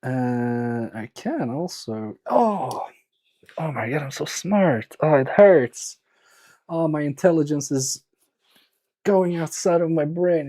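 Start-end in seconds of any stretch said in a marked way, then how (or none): 2.3-10.5 hammed-up groaning complaint; mock agony. Streamer jokes to chat that intelligence hurts, mock agony. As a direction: play at being pained by your own brilliance.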